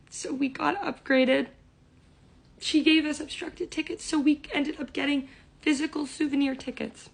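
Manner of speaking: squealing with delight at the happy ending; giddy excitement. Real, not acted. Telling viewers about the upgrade, voice high with excitement.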